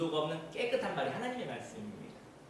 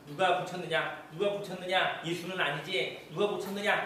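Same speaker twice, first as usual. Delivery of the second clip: higher, pressing mock interrogation; 위협적인 추궁; 4 semitones higher, 4 dB louder than usual. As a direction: grill them with insistent repeated questions. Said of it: "그게 협박을 했는데". (다그치듯 추궁하는 말투)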